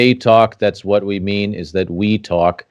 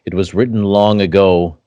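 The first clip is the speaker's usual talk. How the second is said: epic fantasy narrator. Acted. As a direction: read it like a dark legend. Ominous legend intro over music.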